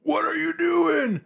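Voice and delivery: high, slow, loud shocked shout; wife's shocked yell. Retold or imitated. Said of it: "she was just like".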